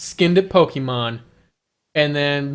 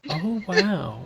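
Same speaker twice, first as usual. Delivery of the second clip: flat fake excitement, slightly slow; imitating a deadpan toy-unboxing host; excitedly deadpan; slower than usual. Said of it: "excitedly deadpan".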